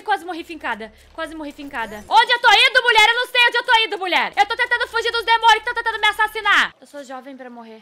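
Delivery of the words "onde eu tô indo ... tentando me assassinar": loud, high, frantic ranting; exasperated shouting. Real, not acted. Gamer fleeing demons answers a nagging woman, exasperated shouting. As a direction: yell back while running for your life.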